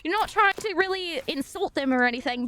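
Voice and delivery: slipping lightly into British; a hint of British accent creeping in; casually picked-up British vowels; slight British accent. Shown as a demonstration. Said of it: "start talking a little British".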